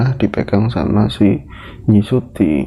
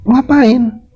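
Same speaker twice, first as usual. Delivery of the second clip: Ratmi hostile; 12 semitones higher than usual. Acted. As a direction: interrogate her rudely from above. Ratmi confronts old Suti.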